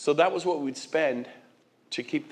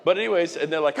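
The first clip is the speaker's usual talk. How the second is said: normal talking voice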